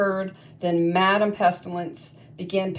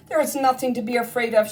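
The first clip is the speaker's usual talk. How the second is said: fast, eager reassuring call; urgent reassurance; 5 semitones higher, faster than usual. Acted. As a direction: hurry to calm her friends. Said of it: "she cried".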